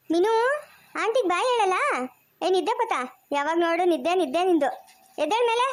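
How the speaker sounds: put-on playful, lifted baby-talk voice; coo-chide a sleepy little one. Aunt teasing the sleepy baby to wake up, playful baby talk.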